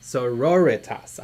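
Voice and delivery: "Sororitas" slowly, as so-ROR-ih-tas; corrected pronunciation. Shown as a demonstration. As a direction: stress the second syllable of "Sororitas", short "i" after it. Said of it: "I always say it wrong".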